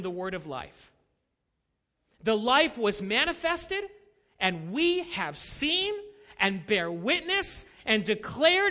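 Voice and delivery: emphatic, measured Bible reading; Scripture reading. Acted. Pastor reads John's testimony to the congregation, emphatic Scripture reading. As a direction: proclaim each phrase slowly and deliberately.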